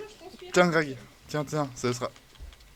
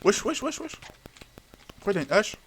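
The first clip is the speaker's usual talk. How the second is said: startled yelling; 9 semitones higher than usual. Real, not acted. Startled by attacking player.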